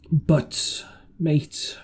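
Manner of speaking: confiding whisper; hushed, as if sharing a secret. Acted. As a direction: lean in and whisper. Ben Gunn confides secret craving.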